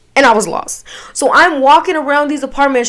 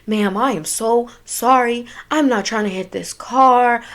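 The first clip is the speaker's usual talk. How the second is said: slow, careful, softened apology; over-controlled, measured politeness; acting sober; 5 dB quieter than usual. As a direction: speak carefully as if pretending to be sober. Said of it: "I'm trying to act sober as possible".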